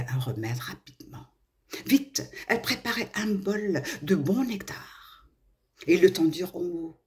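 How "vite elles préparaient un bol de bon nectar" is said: plain reading voice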